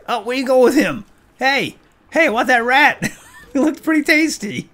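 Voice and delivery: high, loud giggly lines; giggling. Real, not acted. Player giggling over a dead rat.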